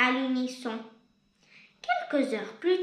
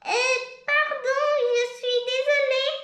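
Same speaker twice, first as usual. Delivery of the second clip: a bit ashamed; 8 semitones higher, 3 dB louder than usual. Acted. Grande Penny apologizing to the polar bears, sheepishly. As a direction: say sorry a little embarrassed. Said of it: "un peu honteuse".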